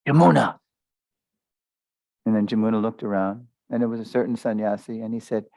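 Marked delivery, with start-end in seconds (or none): 0.1-0.6 calling out. Retold or imitated. A sannyasi calls her name.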